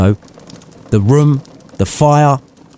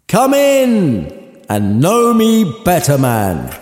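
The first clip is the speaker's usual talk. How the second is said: much higher, slow, stretched ghostly call; booming spirit; 8 semitones higher, much slower than usual. Acted. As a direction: boom it out like a giant spirit calling. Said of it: "a booming voice".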